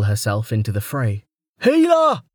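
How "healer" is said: high, urgent cry for help; shouted. A narrator's reading. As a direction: call desperately for a medic. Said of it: "a man shouted".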